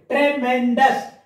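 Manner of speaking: TREMENDOUS in three beats, "tre-men-dous"; cut into syllables. Shown as a demonstration. Teacher counting the cuts for pupils, syllable by syllable. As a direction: slowly separate each syllable of TREMENDOUS. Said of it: "There are two cuts there".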